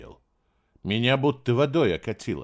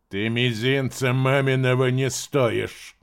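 cold and menacing; 2 semitones higher, 3 dB louder, slower than usual. Acted. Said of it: "говорил холодно и грозно".

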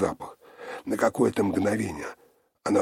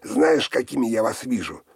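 loud, high furious shouting; enraged; 5 semitones higher, 7 dB louder than usual. A narrator's reading. Sister rages at Olga's whining, loud furious shouting. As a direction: spit the contempt at her.

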